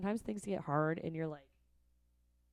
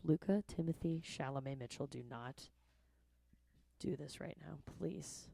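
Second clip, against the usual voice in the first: scolding the dog; 6 dB quieter than usual. Retold or imitated. Scolding dog by full name.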